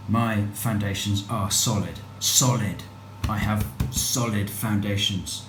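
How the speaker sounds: slow, solemn self-affirmation; affirmation mantra. Acted. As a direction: chant it like a mantra.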